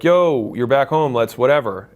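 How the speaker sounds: hyped-up friend calling out; excited friend. Retold or imitated. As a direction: greet a buddy who just got back, all pumped. Friends greeting him back home.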